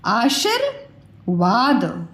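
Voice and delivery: आशीर्वाद stretched slowly so the र after शी stands out; slow syllable-by-syllable. Shown as a demonstration. बच्चों को सिखाती teacher: आशीर्वाद धीरे-धीरे, शी के बाद र पर ध्यान. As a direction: spell out आशीर्वाद slowly by sound. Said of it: "शी के बाद र आ रहा है ना".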